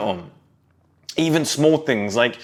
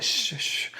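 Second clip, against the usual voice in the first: unvoiced shush to silence dad; whispered shh; 9 dB quieter than usual. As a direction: hush him urgently. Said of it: "And you'd be like".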